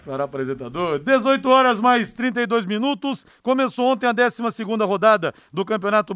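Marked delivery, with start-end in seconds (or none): 0.0-1.0 low mock sultry announcer voice; deep announcer voice. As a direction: echo it in a deep put-on voice.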